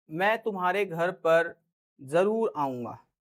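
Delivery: slow promise. Shown as a demonstration. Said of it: "मैं किसी को ये बोल रहा हूं".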